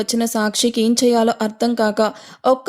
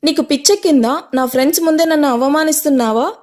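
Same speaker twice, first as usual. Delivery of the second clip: higher and louder, outraged; angry yell; 5 semitones higher, 3 dB louder than usual. Acted. Tanmay berates Sakshi before her friends, angry yell. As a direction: hurl the accusation. Public quarrel at party.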